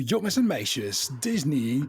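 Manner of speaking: park announcer voice. Retold or imitated. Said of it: "doing them in different languages".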